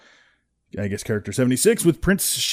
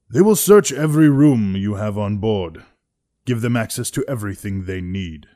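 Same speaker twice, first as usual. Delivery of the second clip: put-on old Imperial commander; 3 semitones higher, 7 dB louder than usual. Imperial commander telling the captain about the search, stern. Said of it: "old guy".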